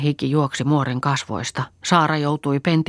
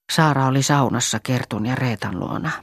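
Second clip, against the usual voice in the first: ordinary delivery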